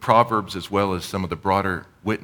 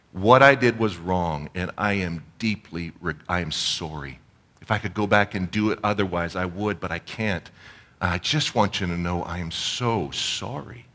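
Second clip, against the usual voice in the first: sincere apology. Shown as a demonstration. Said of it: "models a sincere apology".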